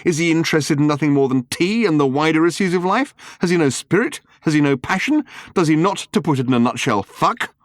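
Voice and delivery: slowed, exasperated crescendo of questions; outraged cry. Retold or imitated. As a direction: clamour like indignant fans wanting gossip. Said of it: "comes the cry".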